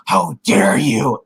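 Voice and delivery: slow, drawn-out retold outrage; lightly acted indignant retort; mock indignation. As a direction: stretch it out in mock anger. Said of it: "she's getting all angry".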